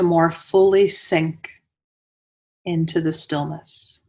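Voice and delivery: unhurried meditation guide with long pauses between phrases; guided meditation. Real, not acted. Teacher guiding listeners into Yoga Nidra, guided meditation voice. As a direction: lead them into stillness, phrase by phrase, leaving space.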